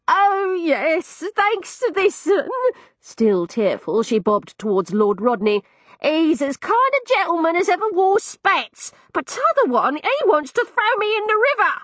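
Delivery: put-on high, quavering old woman's voice; an old lodging-house keeper, still teary; tearful old cockney woman. Landlady telling of her kind rescuer.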